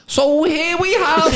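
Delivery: high, very slow hushed documentary narration; nature documentary narrator. Retold or imitated. Imitating Darren filming a confrontation, slow high documentary voice. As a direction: narrate it like a wildlife film. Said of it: "Proper narrating it".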